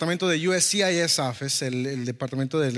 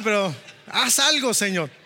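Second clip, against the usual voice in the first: higher-pitched, drawn-out mock plea to God; urgent plea; 4 semitones higher than usual. Retelling his prayer while waiting on the officer, urgent plea. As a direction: plead urgently, stretching the words.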